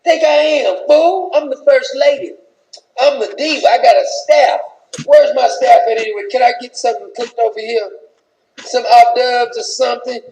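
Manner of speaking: offended wife ignoring the dignitaries, mock indignant; angry Michelle. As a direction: demand your due like an offended first lady. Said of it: "Michelle said".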